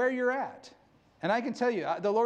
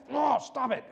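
1 mad at himself; 4 semitones higher than usual. Retold or imitated. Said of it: "then I'd get mad".

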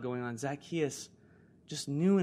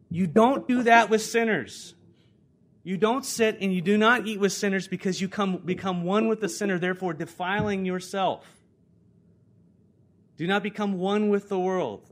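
raised, forceful preacher's warning; emphatic preaching; 4 semitones higher, 6 dB louder than usual. Real, not acted. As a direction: lay down the rule firmly and loudly. Preaches against mixing with sinners.

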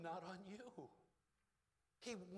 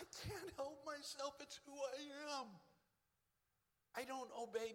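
much higher, louder proclamation; louder on request; 10 semitones higher than usual. Real, not acted. Preacher asked by the crowd to say it louder, high loud proclamation. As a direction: proclaim it as your identity. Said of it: "Say that louder".

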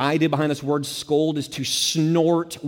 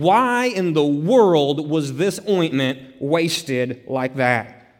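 indignant critics; 4 semitones higher than usual. Retold or imitated. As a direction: voice the critics' indignation over the wasted ointment. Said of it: "They asked the question".

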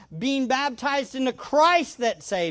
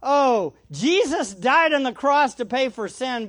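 mock claim; 4 semitones higher, 4 dB louder than usual. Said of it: "It would be like".

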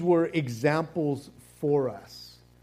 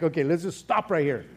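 exasperated interruption. Pretend. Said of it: "And it's like".

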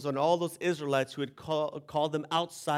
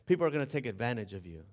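father's warning; 4 semitones lower, 4 dB quieter, faster than usual. Retold or imitated. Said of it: "life lesson he tried to teach me".

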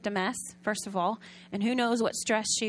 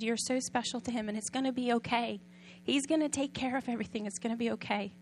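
soft reassurance; 6 dB quieter than usual. Retold or imitated. Giver reassuring the mother.

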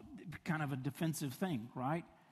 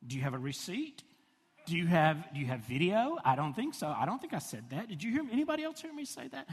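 mock disbelief; 3 semitones higher than usual. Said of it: "I think".

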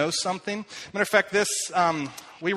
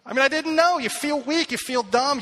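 embarrassed outburst; 8 semitones higher than usual. Real, not acted. Admitting embarrassment to the congregation.

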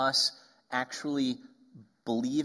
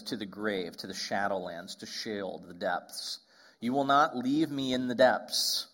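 scripture reading; 3 semitones lower than usual. Acted. Reads psalm aloud.

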